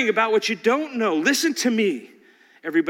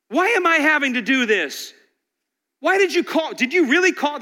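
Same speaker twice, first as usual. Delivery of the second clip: complaining clay; 4 semitones higher than usual. Acted. Clay whining at its maker in protest. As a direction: plead like a hurt complainer.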